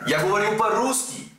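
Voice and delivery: Russian spoken by a pretend native; put-on Russian accent. Pretend Russian answering a doubter of his accent, Russian accent. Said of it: "I put on my best Russian accent".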